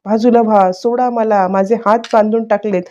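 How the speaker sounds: half-voiced imitation of a frantic outburst; mock frantic shouting. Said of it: "मोठ्या मोठ्याने आरडाओरडा करायला लागली".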